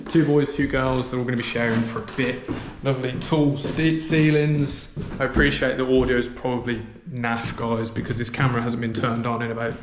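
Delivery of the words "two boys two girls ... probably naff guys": hallway echo. Real, not acted. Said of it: "the echo in here is unreal".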